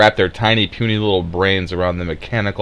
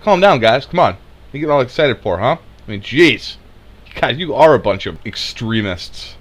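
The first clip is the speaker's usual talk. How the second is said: mock exasperation; 3 semitones higher than usual. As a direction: mimic an exasperated critic telling everyone off. Mimicking critics telling guys to calm down.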